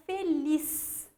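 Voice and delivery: feliz slowed, leaning on the final liz; stress on last syllable. Shown as a demonstration. Teacher showing pupils an oxytone, feliz with a long stressed liz. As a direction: draw out feliz with weight on liz. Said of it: "última sílaba tônica".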